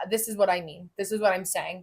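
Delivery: "This is what I mean" said evenly, ending decisively; firm full stops. Shown as a demonstration. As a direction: put a period after "mean" and "saying", no lift. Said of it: "say things with some firm, firm action".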